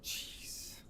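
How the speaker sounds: ordinary talk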